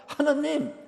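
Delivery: high, loud, tearful pleading cry to God; wailing prayer. Retold or imitated. Grieving mother cries out to God in church, wailing loudly. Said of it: "막 성당 가서 막 엉엉 울어".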